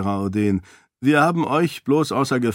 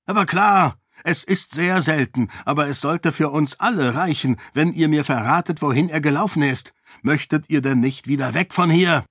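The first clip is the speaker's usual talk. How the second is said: higher, urgent, selling it; eager pitch to strangers; eager persuasion; 5 semitones higher than usual. Acted. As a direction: coax them along with false excitement. Raoden lures newcomers eagerly.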